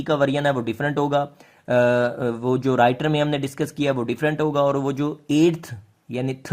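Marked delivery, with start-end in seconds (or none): 6.3-6.5 "थ" as the th ending of eighth; theta sound. Shown as a demonstration. Teacher showing students the th of eighth, "थ" as a theta sound. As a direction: say "थ" as a dental th. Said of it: "वाला जो टीए की sound है".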